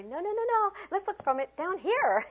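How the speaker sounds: high-pitched teacher voice; acted high-voiced redirection; coaxing a child. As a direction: hurry a child down kindly but urgently.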